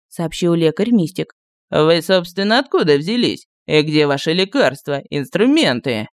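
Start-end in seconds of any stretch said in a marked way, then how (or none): 1.7-6.1 с подозрением. A narrator's reading. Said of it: "с нарастающим подозрением спросил он".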